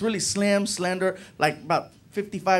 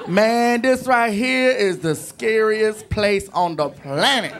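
street driver; 4 semitones higher, 3 dB louder, slower than usual. Retold or imitated. Driver joking about Georgetown.

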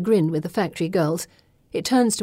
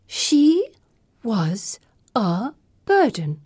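slow, hushed whisper; chilling whisper; 4 semitones higher, much slower than usual. A narrator's reading. Pippa confesses to Gemma, slow whisper. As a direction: let it drop coldly, very slow.

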